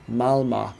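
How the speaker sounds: "Malmö" with a Swedish ö ending; drawn-out "Malmö" in the Swedish way; Swedish pronunciation. Shown as a demonstration. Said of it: "Not Malmo, but Malmö".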